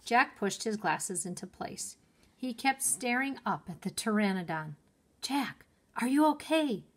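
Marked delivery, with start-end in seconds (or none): 5.2-6.8 higher, raised call. A narrator's reading. Annie calls down to her dazed brother, calling out. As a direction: call his name down to him, concerned. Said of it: "Annie called".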